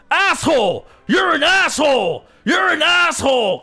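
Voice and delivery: high, hammed-up shouted insult; mock angry shouting. Mimicking the angry driver shouting insults, high and loud. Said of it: "he goes like".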